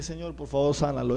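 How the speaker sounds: soft, hushed plea to God; quiet prayer. Retold or imitated. A young preacher quietly begs God to heal the boy. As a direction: murmur it as a humble plea. Whispered prayer at sick child.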